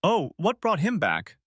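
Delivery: high, slow wary question; pointed, suspicious surprise; surprised. A narrator's reading. Husband hears rival returned.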